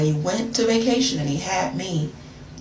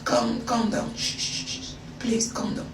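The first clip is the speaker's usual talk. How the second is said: mock soothing; 4 semitones higher, 6 dB quieter than usual. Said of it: "I'm like".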